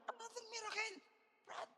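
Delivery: mock aside. Joke aside.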